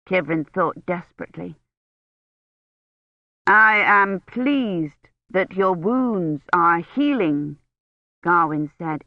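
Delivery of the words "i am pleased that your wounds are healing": slow, every word pressed; emphasizing every word. A narrator's reading. Knight to the injured woman, stressing every word slowly. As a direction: lean on each word in turn. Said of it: "emphasizing every word".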